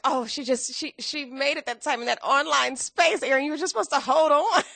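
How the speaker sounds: excited plea. Retold or imitated. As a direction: urge her to have held on, half laughing. Addressing author while reading book.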